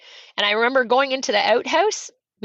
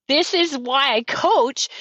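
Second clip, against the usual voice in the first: slow, higher, emotional realisation; tearful, moved; 4 semitones higher, slower than usual. Retold or imitated. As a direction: say it slowly, moved by the moment. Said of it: "tearing up in my face going".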